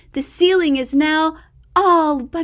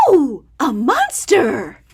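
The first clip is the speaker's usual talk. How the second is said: louder startled cry; surprised Max; 5 dB louder than usual. Acted. Max spotting the monster, surprised. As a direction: gasp out in surprise.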